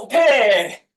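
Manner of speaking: normal talking voice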